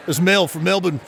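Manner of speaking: lightly put-on Australian accent; Australian caller. Mel calls the radio contest, Australian accent. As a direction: answer as an Australian phone-in caller. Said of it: "he does two different dialects of Australian".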